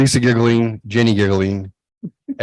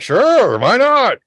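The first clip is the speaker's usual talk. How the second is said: carefree agreement; 12 semitones higher, much slower than usual. Retold or imitated. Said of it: "I'm like".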